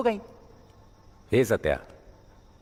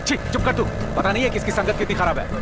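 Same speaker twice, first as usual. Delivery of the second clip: angry scolding; 5 semitones higher than usual. Acted. Father scolds the mother angrily.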